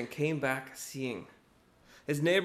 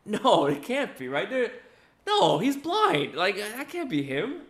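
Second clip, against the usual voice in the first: slow, high, louder no-way voice; disbelieving neighbor; 6 semitones higher, 4 dB louder, slower than usual. Retold or imitated. Doubting neighbors insisting he's still blind, slow and incredulous. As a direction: refuse to believe it, drawn out.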